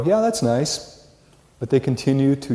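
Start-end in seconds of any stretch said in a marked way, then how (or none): 0.0-1.0 dismissive student. Retold or imitated. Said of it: "and they go".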